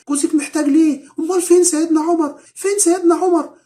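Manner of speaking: put-on very high, loud indignant child's shout; retold screaming. Boy yelling to the doorman's wife, very high and loud. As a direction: cry it out as if outraged at injustice. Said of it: "فقعد يصرخ ويقول لها".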